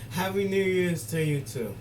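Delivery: excited. Retold or imitated. Answers the video's sign-off loudly.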